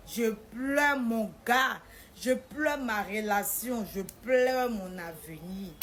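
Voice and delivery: loud, slow, drawn-out lament; hammed-up wail, stretching each loss; mock lamenting. Crying for boyfriend, relationship and future, mock lamenting.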